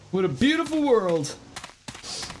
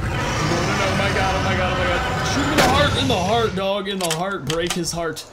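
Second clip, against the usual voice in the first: panicked shouting; 5 dB louder than usual. Real, not acted. Shooting charging T-Rex.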